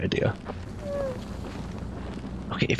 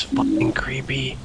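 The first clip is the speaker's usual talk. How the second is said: slow unvoiced whisper; 2 semitones higher, slower than usual. Real, not acted. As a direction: whisper it creeped out. Creeped out in the woods.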